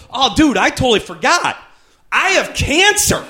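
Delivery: high, offhand and laughing; casual laughing. Retold or imitated. Comedian telling his friend at a bar about cancer, laughing. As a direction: toss it off like it's nothing. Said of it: "I go".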